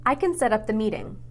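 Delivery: "can" with a short, unstressed A; "can" said quick and light. Shown as a demonstration. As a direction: clip the A in "can" so it's barely there. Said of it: "Do I say can or can't?".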